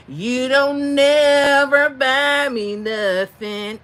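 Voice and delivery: slow, loud sung-out call to reach the crowd. Retold or imitated. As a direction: belt it out across the parking lot. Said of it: "it was louder 'cause it had to reach the people".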